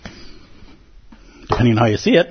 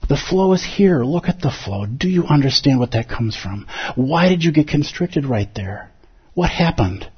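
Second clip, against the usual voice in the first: Zen teacher's voice. Retold or imitated. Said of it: "Zen is so good at saying".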